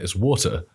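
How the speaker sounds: water with a crisp T; British water. Shown as a demonstration. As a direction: stress the T in water. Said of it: "It's got a T in it".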